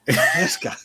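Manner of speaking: a hint of Joker fed up with a man; Joker impression. A fan quoting Joker's exasperated line, squeak at the end. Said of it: "from the minute he said".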